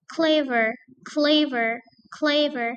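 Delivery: clever, CLE stressed. Shown as a demonstration. Teacher drilling adjective stress on clever. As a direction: lean on CLE. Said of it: "stress on the first syllable".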